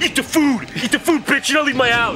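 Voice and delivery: imitating a yell. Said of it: "You're like".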